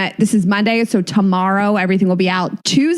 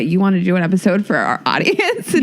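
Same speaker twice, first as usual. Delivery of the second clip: tearful; 5 semitones lower than usual. Real, not acted. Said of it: "Now I'm crying".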